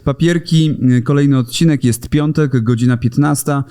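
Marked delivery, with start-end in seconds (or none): none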